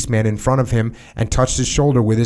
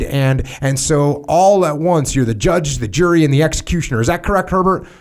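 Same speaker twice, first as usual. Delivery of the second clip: sarcastic boss; 4 semitones higher than usual. Acted. Major mocks the narrator.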